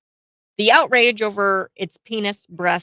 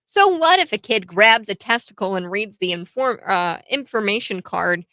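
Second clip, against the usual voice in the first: sarcastic; 4 dB louder than usual. Retold or imitated. Host reading the store owner's post, sarcastic mock horror. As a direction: read her quote with a sarcastic sneer. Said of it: "She's being sarcastic here".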